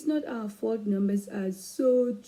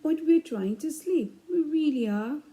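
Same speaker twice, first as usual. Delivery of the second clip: higher, louder whiny plea; pleading; 8 semitones higher, 3 dB louder than usual. Acted. Child pleading with mom to believe them, whiny. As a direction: beg like a child kept from bed. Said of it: "kids pleading".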